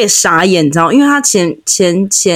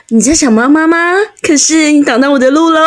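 mock sing-song; 5 semitones higher than usual. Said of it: "这也很怪啊，".

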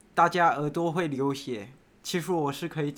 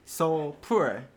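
put-on American accent. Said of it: "用这个美国腔讲话".

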